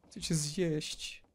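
slow, drawn-out hungry monster voice; mock zombie. Gamer voicing a zombie that wants to eat him, slow and drawn out.

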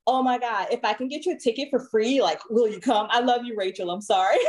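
a hint of gushing valley girl; imitating coworker's valley-girl talk. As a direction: lightly mimic an excited white coworker. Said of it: "That's how she talks".

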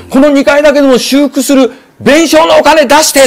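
high pleading voice of the landlady; landlady demanding repair money, high and pleading; pleading innkeeper. Retold or imitated. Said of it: "泣きながら".

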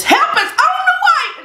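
high playful comic preacher voice; lightly voiced comic uncle; Country Wayne voice. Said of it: "in Country Wayne voice".

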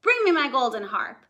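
loud calling ogre. Acted. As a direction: call across the house. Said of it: "the ogre called out".

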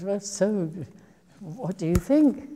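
high, loud, eager asking; eager question. Retold or imitated. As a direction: ask Dad eagerly for his verdict. Eager question to her father.

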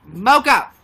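loud call for Mocha; calling the dog. Real, not acted. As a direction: call the dog from across the room.

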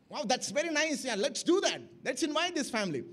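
mildly enthusiastic agreement, acted out; a touch of put-on delight; mock excited. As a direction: play an eager spouse saying yes, lightly. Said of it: "are they excited?".

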